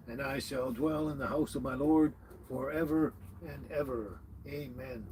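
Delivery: calm, even recital of Psalm 23, phrase by phrase; prayer recitation. Acted. Streamer reciting the psalm to start the stream off right, steady prayerful recital.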